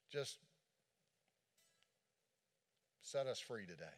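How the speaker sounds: a gentle, steady prayer voice; led prayer. Acted. Pastor praying over the congregation after the sermon, gently. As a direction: pray aloud for everyone, unhurried.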